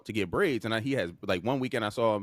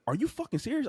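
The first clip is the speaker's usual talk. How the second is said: high-pitched incredulous outrage; indignant retold phone rant; retold cussing out; 14 semitones higher than usual. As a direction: re-enact telling her off, voice jumping up. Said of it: "I'm fucking cussing her".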